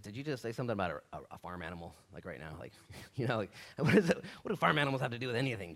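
fast, stumbling incredulous questioning; playful, puzzled protest; mock bafflement. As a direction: sputter it like a confused disciple. Acts Peter baffled by Jesus' remark.

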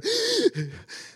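high-pitched mock sob gasp; imitated wailing cry. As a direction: imitate someone crying their heart out, very high. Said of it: "crying like somebody died".

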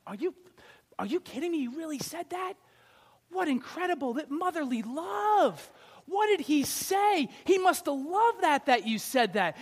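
high, gushing disbelief; mock amazement. Small group friend gushing at Missus E, high mock amazement. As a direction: gush over her like she's a saint.

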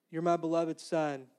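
lightly voiced, unruffled repeat; silly God reply. God answering the preacher's practical questions, mildly silly and unruffled. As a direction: answer evenly, ignoring the question. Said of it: "I'm saying this kind of like, you know, s-, in a silly way".

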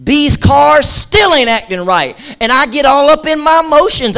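frustrated churchgoer. Retold or imitated. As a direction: whine it like a tired car owner. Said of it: "you're going".

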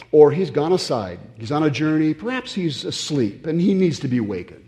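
mild mocking lilt, a touch high; lightly voiced sarcastic prophet; sarcastic taunt. Elijah teasing the praying prophets, mild sarcastic lilt. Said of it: "Now, that's sarcasm".

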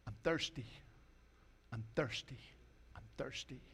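small, soft repeated alert; a faint little signal, pausing between repeats; body's warning signal. Pretend. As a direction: play a quiet warning light, very softly. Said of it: "that is saying".

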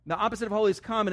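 fast, run-through restatement; brisk reminder; quick repeat. Shown as a demonstration. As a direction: rattle it off.

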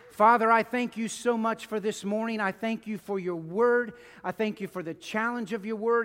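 earnest pastoral prayer, unhurried and devout; closing prayer. Acted. Pastor leading the church in closing prayer, earnest and devout. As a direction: pray over the congregation with feeling.

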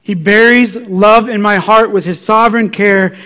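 usual speaking voice

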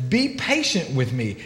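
a servant begging for mercy. Retold or imitated. Servant begging the king, slow low plea. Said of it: "he begs and says".

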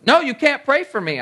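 hammed-up sharp, high "No"; mock insistence. Retelling the atheist coworker refusing prayer, a mock sharp no. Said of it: "She goes".

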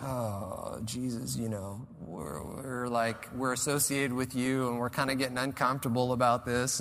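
a touch of nervous discomfort; creeped out. Retold or imitated. Disciples tell Jesus they feel uneasy, mildly creeped out. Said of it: "they're getting creeped out".

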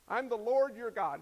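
passing quickly by. Shown as a demonstration. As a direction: read it straight through without pausing. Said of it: "It just kind of flies right by".

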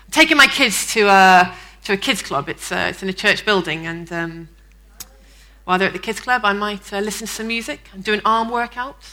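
hesitant, mock-evasive hedging; non-committal. Churchgoer fudging weekend plans to a colleague, vague and faltering. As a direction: pad it out with ums and trailing pauses. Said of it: "really non-committal and vague".

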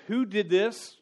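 loud, high demanding parent; angry parent. Retold or imitated. Parent catching the kids, a loud accusing shout. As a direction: bellow it like a parent who found the mess.

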